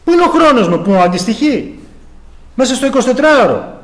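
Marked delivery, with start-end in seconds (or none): 0.0-1.8 God's accusing voice. Acted. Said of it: "Θα πει".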